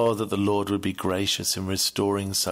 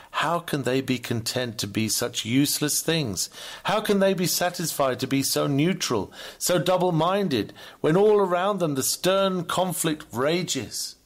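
rising rebuke; 6 semitones higher than usual. Acted. Rebuking idle church members.

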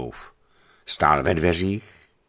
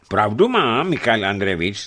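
raised, high, forceful call; vehement exclamation; 5 semitones higher, 6 dB louder than usual. A narrator's reading. Porfirij backs Žarený against the leader, exclaiming vehemently. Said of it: "zvolal prudce Porfirij Voron".

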